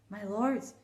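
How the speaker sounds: a king asking kindly but distracted; lightly voiced king. King addresses the lords.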